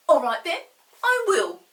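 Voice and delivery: loud, high offended pixie. Acted. Chinky huffily agrees to leave. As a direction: answer in a huff. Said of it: "said Chinky, offended".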